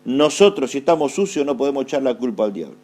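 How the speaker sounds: spaced out phrase by phrase, pausing after "Nosotros". Shown as a demonstration. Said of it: "Lo digo despacio". (repetido despacio, frase por frase)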